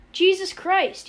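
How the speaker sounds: high, loud cry of disbelief; appalled, incredulous shout; amazed scream. A narrator's reading. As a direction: yell it in tortured amazement. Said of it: "he screamed at Arfie in tortured amazement".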